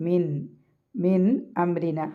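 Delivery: മിൻ set apart, its noon sounded before അംരിന; clearly pronounced noon. Shown as a demonstration. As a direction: give മിൻ a full, clear "n". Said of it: "നൂനിനെ pronounce ചെയ്യും".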